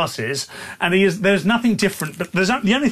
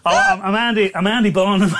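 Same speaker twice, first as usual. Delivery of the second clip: rough mock northern English accent; Andy Burnham. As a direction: have another go at a shaky northern English accent. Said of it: "what that northern accent is".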